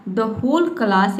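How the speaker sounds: slow, careful English reading. Shown as a demonstration. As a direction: spell it out slowly for learners. (धीमे स्वर में पढ़ना)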